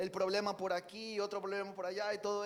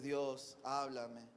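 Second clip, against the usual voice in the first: softer, lower, gentle plea; quiet prayer; 6 semitones lower, 6 dB quieter, much slower than usual. Acted. Believer asking God to speak, in a hushed prayer. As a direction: hush your voice as if praying alone.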